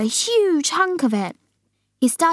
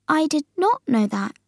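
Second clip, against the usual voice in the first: higher voice of Sophie; Sophie answering; 7 semitones higher than usual. Acted. Sophie admitting ignorance to the giant, high-voiced.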